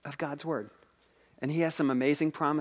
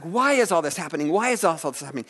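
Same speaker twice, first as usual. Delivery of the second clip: mildly raised, pleading question; crying out to God; 2 semitones higher, 5 dB louder than usual. Retold or imitated. Preacher voices Habakkuk questioning God, mildly crying out. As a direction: retell a prophet's cry, a little louder. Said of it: "Habakkuk cries out to God".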